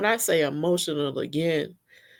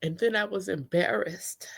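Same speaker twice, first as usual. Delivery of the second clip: crying; 5 dB quieter than usual. Real, not acted. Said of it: "I can't believe I'm still crying".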